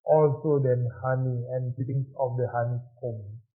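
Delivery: slow, weighty reading of the psalm; scripture reading. Acted. Preacher reads psalm to congregation, slow solemn reading. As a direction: read the psalm aloud to the congregation, slowly. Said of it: "pemazmur bisa mengatakan".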